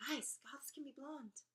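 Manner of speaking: hushed aside whisper. Real, not acted. Telling viewers in a whisper that goths can be blonde. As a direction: whisper it like a secret to the audience.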